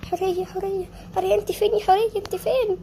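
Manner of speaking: frantic call for her sister. Acted. Calling for lost sister.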